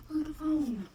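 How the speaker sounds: talking while chewing gum. Real, not acted. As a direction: chew gum through the line. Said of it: "my gum chewing".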